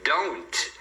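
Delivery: don't with its final T; pronounced final T. Shown as a demonstration. Teacher introducing the word, don't with final T. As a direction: close don't on a T. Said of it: "não vão falar esse T final".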